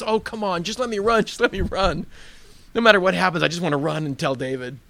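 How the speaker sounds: loud, high, impatient pleading; insistent begging. Acted. Messenger presses Joab to let him run, loud insistent begging.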